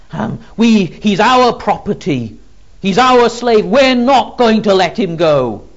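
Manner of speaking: mild demon defiance rising to a loud challenge; defiant demon. Acted. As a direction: grow into open defiance. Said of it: "He's saying to Jesus".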